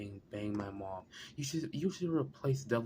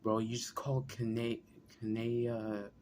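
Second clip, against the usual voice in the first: ordinary talk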